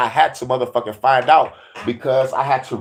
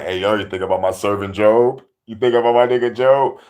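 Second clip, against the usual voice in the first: 1 lower God voice; 3 semitones lower than usual. Acted. God voiced bragging about Job.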